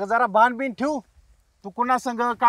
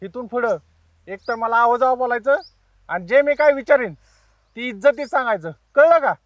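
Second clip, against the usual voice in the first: angry; 4 dB louder than usual. Acted. Thug threatening the girl.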